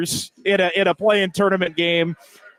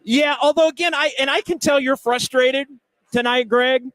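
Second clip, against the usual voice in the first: talking around gum; words through a wad of gum; chewing gum; 6 semitones higher than usual. Real, not acted. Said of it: "Excuse me, I almost spit my gum out".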